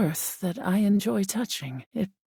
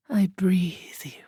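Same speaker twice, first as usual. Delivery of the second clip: whisper; slower than usual. Acted. Air spirit whispering intimately to the human. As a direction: exhale the words. Spirit ends meditative exchange.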